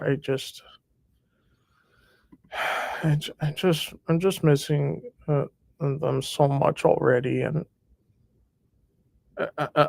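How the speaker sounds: emotional, overcome, halting speech with stumbling words. Speaking to viewers watching online, apologizing: getting emotional. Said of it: "I'm sorry if I'm getting emotional".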